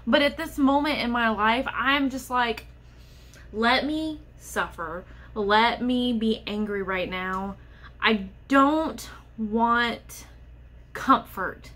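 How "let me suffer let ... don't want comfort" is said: slow, emphatic exasperation; real frustration. Real, not acted. Infertile vlogger pushing away well-meant comfort, slow and frustrated. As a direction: spell it out slowly, fed up. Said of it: "it makes me so mad".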